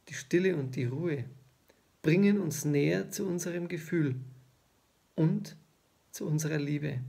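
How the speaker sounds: measured poetry reading with long pauses; poem recitation. Acted. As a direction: recite the poem line by line, pausing between phrases. Reads second poem aloud.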